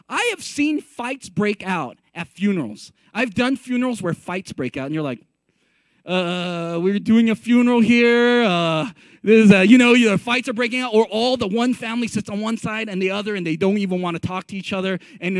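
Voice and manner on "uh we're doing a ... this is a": awkward interjection. Acted. Officiant interrupting a funeral fight.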